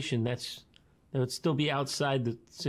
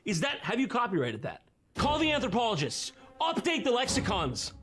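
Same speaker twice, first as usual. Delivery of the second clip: sarcastic; 6 semitones higher than usual. Acted. Mocking her coined phrase.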